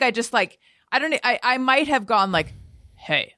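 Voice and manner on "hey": a low, curt "Hey," with the jaw barely moving; cold greeting. Retold or imitated. Snubbing the girl who ditched her, curt and cold. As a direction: mutter "Hey," without opening your mouth. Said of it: "my jaw barely moved".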